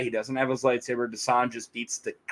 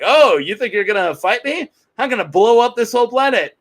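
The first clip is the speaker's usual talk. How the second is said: loud, higher hammed-up villain taunt; mock villain threat; 9 semitones higher, 7 dB louder than usual. Villain taunting Kyle Katarn, loud mock menace. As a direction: sneer it out like a cartoon baddie.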